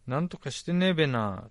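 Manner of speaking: lightly voiced Tochigi べな with a stretched ねえ; a hint of a Tochigi local saying ねえべな; Tochigi dialect. Mimicking how Tochigi people talk, a touch of Tochigi accent. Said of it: "って言いますよね".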